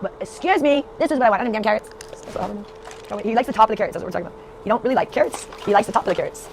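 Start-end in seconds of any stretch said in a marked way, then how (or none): 0.0-1.9 higher, indignant little bunny voice, lightly voiced; a mock-offended rabbit protesting; voicing the bunny indignant. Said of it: "He's like".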